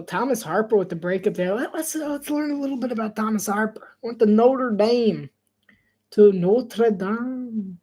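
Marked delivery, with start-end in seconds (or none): 4.0-5.3 deliberately slow read; slowed-down mock commentary. Shown as a demonstration. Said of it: "they're speaking at regular speed". 6.1-7.8 extremely slow, whispered mock of slow talkers; exaggerated slow-motion whisper. Shown as a demonstration. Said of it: "they're speaking at regular speed".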